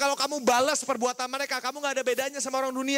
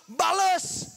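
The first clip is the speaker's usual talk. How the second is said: higher, drawn-out command; urging retaliation; 5 semitones higher than usual. Retold or imitated. Big brother teaching younger one to hit back, urging command. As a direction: push the word out like an order.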